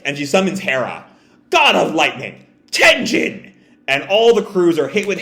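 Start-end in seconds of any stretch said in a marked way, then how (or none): 1.5-3.5 attack call. Acted. Big Mom summons lightning.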